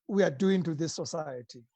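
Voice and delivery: soft, sighing and dejected; weary sigh. Real, not acted. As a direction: let it fall with a sigh.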